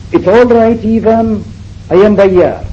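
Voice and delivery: high, loud call up to the roof. Retold or imitated. Sarah calling up to Even on the roof, high loud call. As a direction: reassure him from below, calling up. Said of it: "So I called up to Even".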